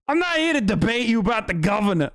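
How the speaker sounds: put-on quick first try at the Midwestern cop accent; a hesitant Midwestern cop imitation; half-hearted Midwestern cop accent; Midwestern cop impression. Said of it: "I can't even do his accent".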